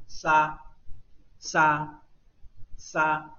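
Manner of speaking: 沙 with air flowing slowly out between the teeth; slow airflow through teeth. Shown as a demonstration. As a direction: let the breath slide gently through the teeth on 沙. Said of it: "气流呢是从牙齿当中呢缓慢的流出去". (沙：气流从牙齿间缓缓流出)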